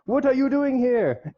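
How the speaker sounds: slow, high mock-indignant father; disapproving dad. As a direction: imitate an affronted dad, drawn out and high. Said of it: "talk to the dad, and he's like".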